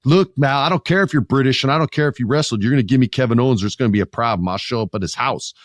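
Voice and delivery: heated, quick confrontation in another man's voice; Cody Rhodes. Retold or imitated. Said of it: "And Cody's like".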